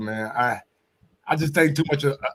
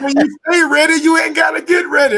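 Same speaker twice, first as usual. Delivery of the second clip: much higher and louder, shouting the saying out; hyped shout; 11 dB louder than usual. Real, not acted. Co-host shouting his point about Earl, excited yell. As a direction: belt it out like a fight-night slogan.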